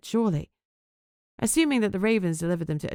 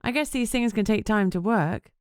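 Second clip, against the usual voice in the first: trying to sound upbeat; 4 semitones higher than usual. Acted. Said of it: "trying to sound upbeat".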